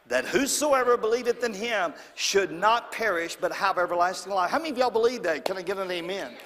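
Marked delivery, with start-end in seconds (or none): 0.1-4.5 reading John three sixteen aloud together; recited scripture together. Real, not acted. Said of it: "Let's say it together".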